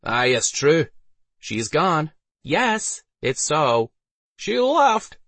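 short confirmations in varied put-on voices; murmuring townsfolk. A narrator's reading. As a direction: chime in as different commoners. Various townsfolk confirm in turn.

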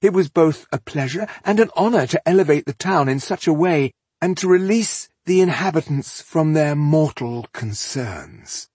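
high, lilting, proud declamation; grandiose villain. A narrator's reading. Elf boasting to the rebel of his artwork, grandiose. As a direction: present slaughter as a noble honour.

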